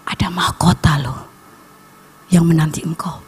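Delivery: low, half-whispered promise; hushed, intimate retold word from God; God speaking closely. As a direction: murmur it low as if from just behind. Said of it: "Dia bilang".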